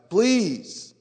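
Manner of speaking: high, drawn-out mock begging please; mock pleading whine. Students begging the professor.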